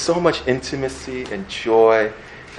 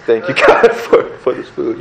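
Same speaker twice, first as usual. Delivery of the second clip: sneaky eyeglass prayer; 4 dB louder than usual. Pretend. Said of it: "You do the, the eyeglass".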